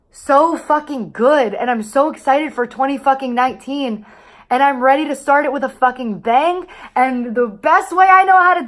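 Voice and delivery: excited. Real, not acted. Hyped about the new year.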